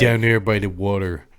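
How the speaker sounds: put-on accent slipping into Philly. Trying the accent game, slipping into a Philly accent. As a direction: attempt Boston but land in Philly. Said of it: "Oh, that's Philly".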